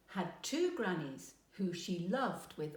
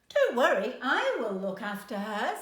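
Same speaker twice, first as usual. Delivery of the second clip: louder, higher competing claim; insistent promise; 4 semitones higher, 8 dB louder than usual. A narrator's reading. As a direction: outbid the other granny. Grannies compete again.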